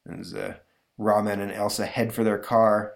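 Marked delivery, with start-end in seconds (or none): none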